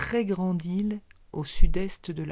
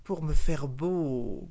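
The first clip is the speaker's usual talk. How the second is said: slow, grumbling growl; 2 semitones lower, 4 dB louder, slower than usual. Acted. Snake growls slowly at the frog's question. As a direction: drag it out like a sulky growl. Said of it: "grogna le serpent".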